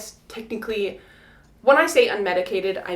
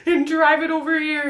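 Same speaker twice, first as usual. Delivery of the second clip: husband reassuring; 8 semitones higher, 3 dB louder than usual. Retold or imitated. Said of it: "And he's like".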